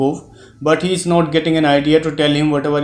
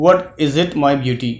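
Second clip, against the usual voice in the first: polite and kind. Retold or imitated. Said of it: "in a very polite manner".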